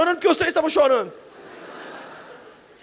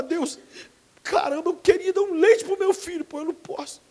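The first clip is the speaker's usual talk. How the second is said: tearful prayer; 5 semitones higher than usual. Retold or imitated. Father who couldn't buy milk, crying to God. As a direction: cry out to God, voice cracking.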